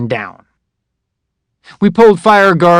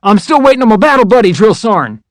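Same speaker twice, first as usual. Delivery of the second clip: nervous recruit; 7 semitones higher, 4 dB louder than usual. Retold or imitated. Recruit answering yelling drill sergeant.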